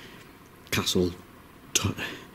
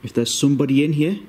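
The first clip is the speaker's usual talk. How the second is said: calling out; 5 semitones higher, 4 dB louder than usual. Real, not acted. Calling out to spirits.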